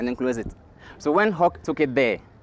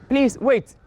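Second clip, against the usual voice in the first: high-pitched plea to hold on; Tortoise interrupting; 10 semitones higher, 3 dB louder than usual. Acted. Tortoise stops birds about to eat, high acted interruption. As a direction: halt everyone with a raised voice.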